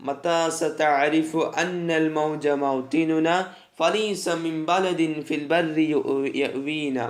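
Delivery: slow, measured poem reading; verse recitation. Acted. Teacher reading an Arabic poem to students, slow recitation. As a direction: recite the line slowly, stretching long vowels.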